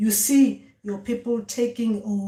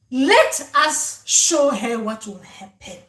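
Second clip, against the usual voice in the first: slow, louder, deliberate verdict; ominous ancestor; 3 semitones higher, 6 dB louder, much slower than usual. Retold or imitated. Ancestors deciding to teach a lesson, slow and ominous. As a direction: let the threat hang in every word.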